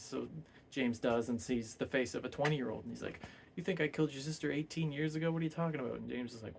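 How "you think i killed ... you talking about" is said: higher, quick mock disbelief; lightly acted indignant question; incredulous denial. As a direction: retell it as a baffled, hurried protest. Retold quote, incredulous denial of murder.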